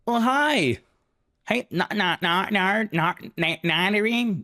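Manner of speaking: high-pitched, hammed-up French Canadian accent; Angelic Cabbage. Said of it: "Now I'm gonna sound like French Canadian".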